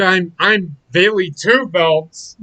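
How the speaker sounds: slow, mocking whine of a smug champion; mocking Bayley. Mocking Bayley to a friend, slow and smug. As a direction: drag out the boast like a dim braggart. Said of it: "that's exactly the way she fucking sounds".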